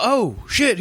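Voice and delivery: high alarmed blurt; acted panic. Storyteller playing Bob finding out about the lizard, high panic. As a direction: imitate a startled coworker.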